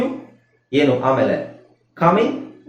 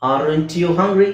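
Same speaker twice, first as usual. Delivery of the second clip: slow model read; much slower than usual. Shown as a demonstration. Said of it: "ನಾವು fast ಆಗಿ ಹೇಳ್ಬೇಕಾದ್ರೆ".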